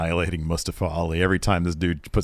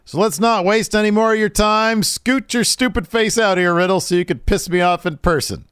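calling out; 11 semitones higher, 3 dB louder than usual. Retold or imitated. Retold Seth calling out.

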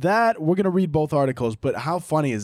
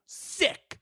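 whispered sick; 6 dB quieter than usual. Acted. Mock whispered reaction.

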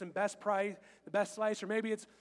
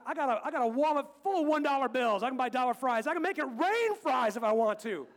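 mock boasting; 3 semitones higher, 5 dB louder than usual. Boasting about buying fries.

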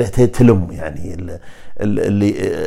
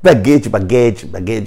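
French pronunciation. Shown as a demonstration. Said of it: "أنا أقرب اللفظ".

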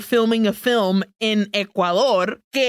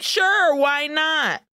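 high casual "sure"; 6 semitones higher, slower than usual. Retold or imitated. Voicing casual agreement.

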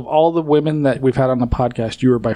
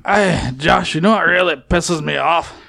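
lightly put-on, muddled Scottish accent, a little higher; awful put-on accent; 3 semitones higher, slower than usual. Co-host grumbling to Josh about a rival podcast, awful mixed accent. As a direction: do a bad Scottish-meets-surfer accent. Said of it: "somewhere between awful, ... awful Scottish accent".

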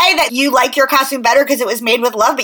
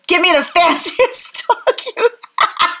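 higher, lightly voiced demanding child, breaking up; a hint of a bossy girl, through laughter; Fancy Nancy; 4 semitones higher than usual. Host mimicking the cartoon girl at the pound, laughing bossy child voice. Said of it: "goes into the pound and goes".

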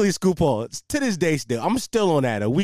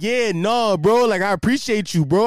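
hammed-up grateful bro, higher; lightly put-on Canadian-ish dude; mock Canadian idiot coworker; 4 semitones higher, 4 dB louder than usual. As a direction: imitate a dopey coworker, pushing the bro. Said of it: "I give him this Canadian accent".

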